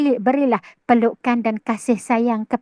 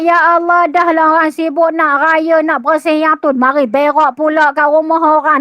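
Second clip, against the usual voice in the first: louder, exasperated grumbling; annoyed complaint; 2 semitones higher, 5 dB louder than usual. Acted. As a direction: vent at the mess the cat left, louder. Annoyed at cat on doorstep.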